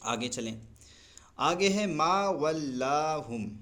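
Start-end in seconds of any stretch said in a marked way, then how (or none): 1.9-3.5 ما ولاہم recited slowly with the a of ما held long; slow recited demo; stretched ma. Shown as a demonstration. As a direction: draw out ما, then ولاہم. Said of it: "ما کے الف کو کھینچیں گے".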